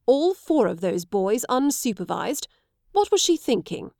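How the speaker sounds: worried, rising to a high exclamation; a father alarmed at what the boys are up to; anxious disbelief climbing high. Acted.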